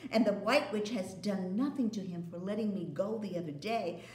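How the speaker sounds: put-on chattering glad child; Lucy sharing her news. Lucy voiced.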